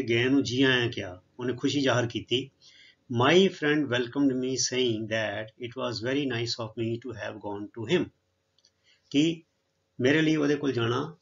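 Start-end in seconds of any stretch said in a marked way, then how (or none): 3.2-8.1 reading the English sentence out word by word, very slowly; slow dictation reading. Shown as a demonstration. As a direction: spell it out slowly for the class. (ਬਹੁਤ ਹੌਲੀ ਹੌਲੀ ਪੜ੍ਹਾਉਣ ਵਾਲਾ ਲਹਿਜਾ)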